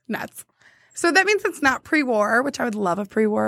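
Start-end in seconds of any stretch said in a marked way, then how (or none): 0.1-0.4 sighed nuts. Real, not acted. Sighed exclamation.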